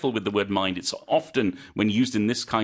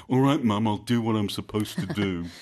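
put-on sulky teenager; 3 semitones lower than usual. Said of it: "something a teenager might say to their parents".

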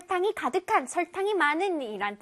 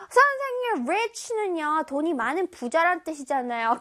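student questioning. Acted. Pupil objects to teacher about what rich means, questioning. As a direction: pipe up like a pupil challenging the teacher. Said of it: "근데 우리 친구들 중에".

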